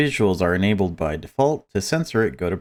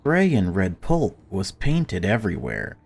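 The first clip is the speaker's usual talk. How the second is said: story narration; 3 semitones higher than usual. Acted. Streamer reading the game's story, lightly dramatic narration. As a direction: read it like a grim tale, lightly. Reads game story aloud.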